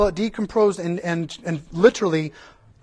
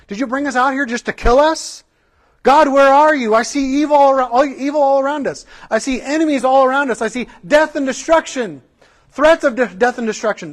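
grumbling Israelites; 5 semitones higher, 4 dB louder than usual. Retold or imitated. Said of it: "started to grumble against God and say".

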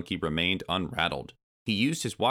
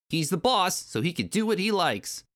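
small Kremling; 12 semitones higher than usual. Acted. Small Kremling answering the giant bee, high creature voice. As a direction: squeak it out as a tiny henchman.

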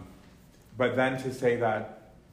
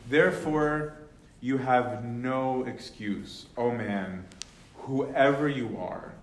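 scripture reading. Acted. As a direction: read the verses as weighty scripture. Reading Romans 2 aloud.

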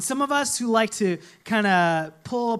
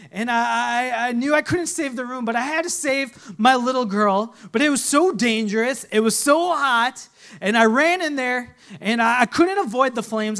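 urgent rising retelling; 4 semitones higher, 5 dB louder than usual. Acted. Mother retells the fire rescue.

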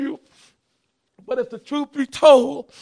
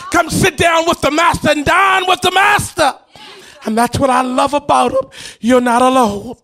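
full-force preaching. Acted. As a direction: preach it out to the congregation.

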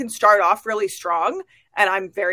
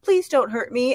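mock pleading, a little higher; vulnerable baby lamb; 4 semitones higher than usual. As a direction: lightly play the helpless little lamb. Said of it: "like, a little baby lamb".

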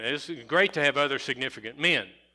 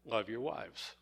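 love your wives dropped softer after the stressed word; unstressed remainder; 9 dB quieter than usual. Shown as a demonstration. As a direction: let love your wives fall away quietly. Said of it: "we emphasize each word in the verse".

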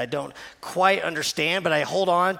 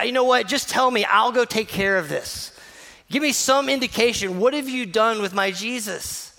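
higher, eager mock plea; imitating Mary; 4 semitones higher, 3 dB louder than usual. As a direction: play her as determined and flustered. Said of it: "this sweet woman that's just like".

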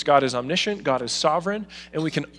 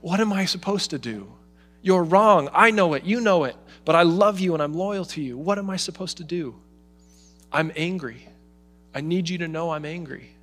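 anguished father; 4 semitones higher than usual. Retold or imitated. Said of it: "he's navigating his own emotions here".

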